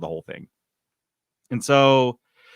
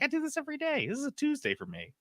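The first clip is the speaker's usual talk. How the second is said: unenthused; 13 semitones higher, 10 dB quieter, faster than usual. Pretend. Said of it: "not that stoked about it".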